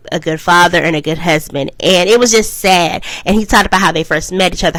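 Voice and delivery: ordinary talk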